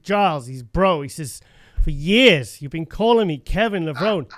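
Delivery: mock scolding voice note; telling off. Kevin's voice note correcting his name, mock telling-off. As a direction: retell it as an exasperated telling-off. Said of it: "telling me off".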